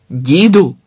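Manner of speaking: loud call of a name; shout. Acted. The guard shouts at the old man advancing on him. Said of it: "крикнув стражник".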